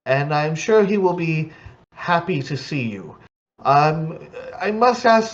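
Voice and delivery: lightly voiced fussy servant; halfling butler. Halfling butler answering Kygor about the captain, lightly voiced. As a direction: fret politely over the master's health.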